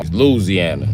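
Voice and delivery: slow Louisiana as "Loo-zee-anna"; corrected pronunciation. Shown as a demonstration. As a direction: draw out Louisiana, pitch dropping. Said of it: "We all been saying it wrong".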